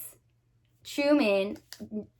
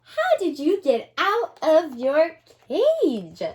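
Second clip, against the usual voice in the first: tender praise; 4 semitones higher than usual. Acted.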